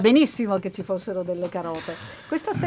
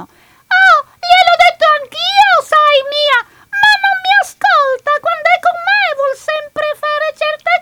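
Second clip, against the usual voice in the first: flirty character voice; 10 dB louder than usual. Acted. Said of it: "la dimostrazione".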